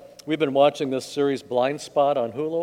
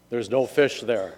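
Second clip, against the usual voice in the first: lightly voiced heavenly voice, slow; a slow, mild pronouncement; voice from above; 4 semitones lower than usual. Voice from above warns ice fisher, measured pronouncement. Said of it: "a voice came from up above him".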